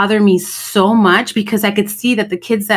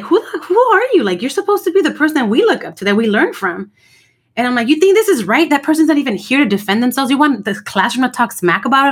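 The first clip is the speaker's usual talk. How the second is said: retold telling-off; 4 semitones higher than usual. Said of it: "And I just went off on her".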